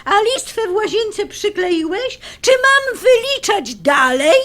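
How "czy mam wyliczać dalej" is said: pointed challenge. Acted. Wife lists his unfinished chores.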